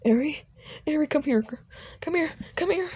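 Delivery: high, eager calling out; calling the child. Acted.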